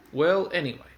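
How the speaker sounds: put-out engine huffing; huffy. Acted. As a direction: brush the others off in a huff. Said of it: "huffed Thomas".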